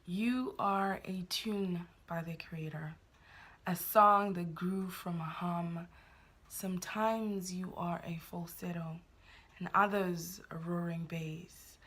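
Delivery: slow, measured poetry reading with long pauses; poem recitation. Real, not acted. Poet sharing own poem with viewers, slow and measured recitation.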